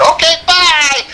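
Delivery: high singsong mock goodbye; sarcastic singsong bye to the trooper; mock cheerful. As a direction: wave him off sweetly. Waving off the cop.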